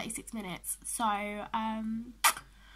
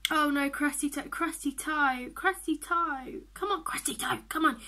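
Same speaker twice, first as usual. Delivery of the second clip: urging on; 5 dB louder than usual. Real, not acted. Urging on her losing horse.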